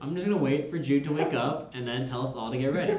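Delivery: laughing quote. Retold or imitated. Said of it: "so I was like".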